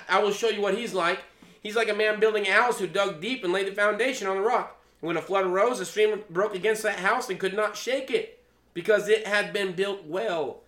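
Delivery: loud, driving Bible reading; scripture reading. Acted. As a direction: read the passage out with preacher's force. Reading scripture aloud to congregation.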